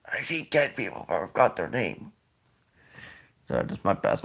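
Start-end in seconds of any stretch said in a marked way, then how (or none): 0.1-2.1 a hushed, softer imitation of Biden, then trailing off confused; Biden impression. Vlogger mocking Biden forgetting a name, hushed. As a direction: murmur it like a forgetful old man. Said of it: "my best Biden impression".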